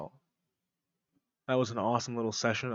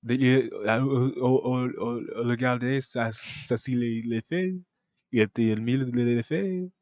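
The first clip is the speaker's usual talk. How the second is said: stammered, improvised French; mock French. Shown as a demonstration. Describing the cake to viewers, rambling mock French. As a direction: bluff through halting French. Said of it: "that's how I speak French".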